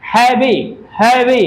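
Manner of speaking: हैवी in two beats, है-वी; syllable by syllable. Shown as a demonstration. Teacher shows students syllables, हैवी split into है-वी. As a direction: sound out हैवी as है, then वी. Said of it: "इस level इसको कहा जाता है".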